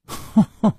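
high, brief acted chuckle; short chuckle. Yinji amused at Chu Liuxiang's question, short chuckle.

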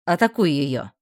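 loud, curt order; command. A narrator's reading. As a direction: bark the order at the student. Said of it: "приказал Бран".

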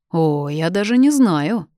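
ordinary delivery, nothing marked

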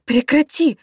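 very high, loud scream; wife screams at attacker; sobbing scream. A narrator's reading. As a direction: scream it through tears. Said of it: "кричала я сквозь рыдание".

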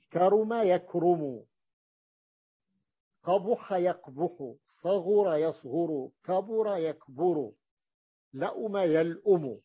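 slow, deliberate recitation of each verb pair; teacher spells out each pair slowly for students; slow drill. Shown as a demonstration. Teacher to class, reciting verb pairs slowly and clearly. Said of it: "teacher drills verb pairs".

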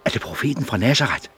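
eager. Acted. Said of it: "spurgte han ivrigt".

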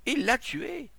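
very high, loud cry; horrified accusation. A narrator's reading. Onlooker to the crowd, horrified shout. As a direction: shout it in horror.

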